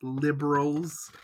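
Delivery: parodying an angry conservative, quietly; mock grumbling conservative. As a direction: grumble like a cranky pundit. Mock Republican persona.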